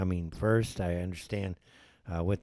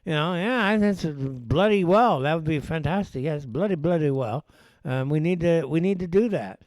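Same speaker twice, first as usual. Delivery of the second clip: mock Brit; 5 semitones higher, 4 dB louder than usual. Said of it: "I can't imagine the British people saying".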